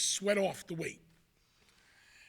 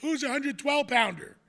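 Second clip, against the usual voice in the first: loud, higher call across a room; imitated challenge; 6 semitones higher, 6 dB louder than usual. Rival school's girl calls out a wrestler, challenging. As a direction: call out like a girl sizing up opponents.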